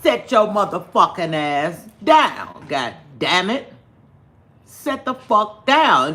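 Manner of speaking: mock-stern scolding; stern command. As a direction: lay down the law slowly. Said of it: "I said".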